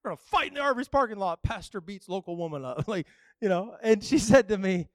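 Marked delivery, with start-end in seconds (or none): 0.0-2.8 mock alarm. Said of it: "I was like".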